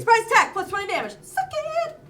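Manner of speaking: loud gleeful yell; excited shout. Real, not acted. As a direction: shout it out in triumph. Gleeful attack roll.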